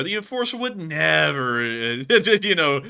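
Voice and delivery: slow, loud, mock-earnest sarcastic read. Shown as a demonstration. Streamer reads a donation message sarcastically for the chat. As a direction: lay the irony on thick and break into a laugh. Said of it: "interpret it sarcastically and go".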